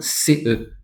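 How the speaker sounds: "C E" said slowly as two sounds, C then E; slow letter-by-letter "C E"; spelled-out C E. Shown as a demonstration. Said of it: "dans la prononciation".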